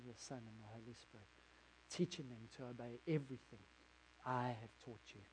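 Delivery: soft, measured and solemn; Jesus's commission. Acted. Jesus on the Mount of Olives commissioning Peter, soft and solemn. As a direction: send him out quietly, with weight. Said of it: "and he says to me".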